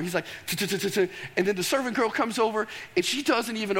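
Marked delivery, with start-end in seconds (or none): 0.5-1.1 mouth knocking sound. Retold or imitated. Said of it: "He knocks on the door".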